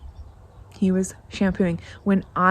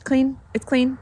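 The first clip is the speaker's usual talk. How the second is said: higher sing-song aunt voice, a touch mocking; imitating auntie; 7 semitones higher than usual. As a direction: play the aunt knowingly sing it out. Aunt sees the shampooed house.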